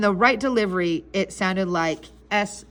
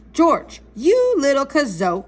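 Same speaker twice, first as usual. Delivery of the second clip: higher, slower exasperated scold; mock scolding of a little rascal; mild scolding; 4 semitones higher, 4 dB louder than usual. Parent to little George who is misbehaving, mild scolding.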